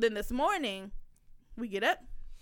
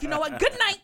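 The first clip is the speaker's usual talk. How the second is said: retold angry good night, higher and louder at the end; pissed-off sign-off; 4 semitones higher, 5 dB louder than usual. Mother leaving before slamming the door, retold pissed-off good night. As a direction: end the argument with a mock-furious parting shot.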